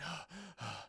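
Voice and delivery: soft, heavy breathing out; acted deep breath. Caller recovering after hanging up, acted deep breaths. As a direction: mime recovering with a big audible breath. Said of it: "starts to take deep breaths".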